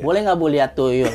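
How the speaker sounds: retold innocent question through laughter; naive ask, laughing. Boy retelling his naive question to the lady, laughing. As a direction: ask it plainly while laughing. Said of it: "Dengan polos ya kan gue".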